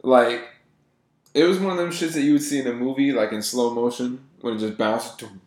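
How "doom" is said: short "doom" bounce noise; imitated bounce. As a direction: make the sound of a ball bouncing.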